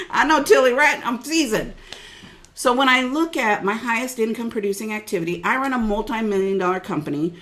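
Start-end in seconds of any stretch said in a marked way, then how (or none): 0.1-1.7 laughing. Real, not acted. Laughing joke.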